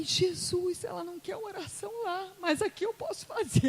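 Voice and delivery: high, tender retold prayer; earnest pleading. Preacher praying privately for the guest, pleading and high.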